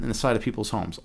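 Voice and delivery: words dissolving into a low soft laugh. Real, not acted. Streamer laughing at his own bombed-house rant. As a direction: chuckle through the end.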